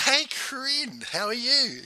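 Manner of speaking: drawn-out, high-pitched hello; delighted greeting. Retold or imitated. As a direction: re-enact greeting an old colleague, slow and high. Retelling his surprised greeting back.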